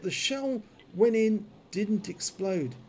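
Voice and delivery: slurred, half-frozen jaw speech; talking through a numb, swollen jaw. Real, not acted. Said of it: "why my words are slurred".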